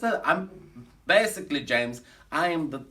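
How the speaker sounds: put-on German accent of a comic showman; fake German accent. Bragging to the audience in a fake German accent. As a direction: camp cabaret star with a fake German accent.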